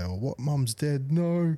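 drawn-out, high-pitched fake dismay; put-on horrified disbelief; mock shock. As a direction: play up the bad news in a high, slow wail. Rehearsed fake shock for prank.

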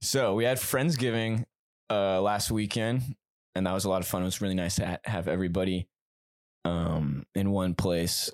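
deep mock-serious voice. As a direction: recap the party in a put-on low voice.

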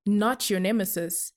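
measured spoken-word delivery; poem recitation. Acted. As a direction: recite it like a performance poet.

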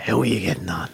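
put-on Dublin accent. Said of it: "I always talk in the accent of whoever I'm talking to".

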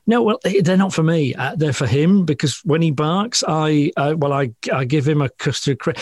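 dog owner excusing the biscuits, lightly flustered. Retold or imitated. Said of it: "And she said".

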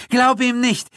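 high, urgent pleading; frantic, stammering accomplice; Gildritch pleading. A narrator's reading. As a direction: beg the monster not to listen.

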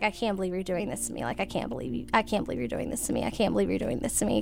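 retold breakdown, quick and subdued; broken down. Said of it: "I just broke down".

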